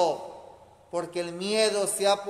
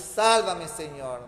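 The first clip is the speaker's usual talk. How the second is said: cry out; 3 semitones lower than usual. Shown as a demonstration. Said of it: "es ese gritarle a Jesús".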